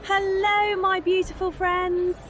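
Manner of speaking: slurring, tipsy greeting; town drunk. Acted. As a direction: drunk and overly friendly. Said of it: "stumbling and slurring her words".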